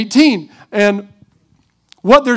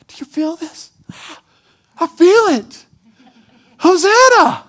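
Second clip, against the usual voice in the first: excited crowd; 5 semitones higher than usual. Retold or imitated. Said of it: "be like".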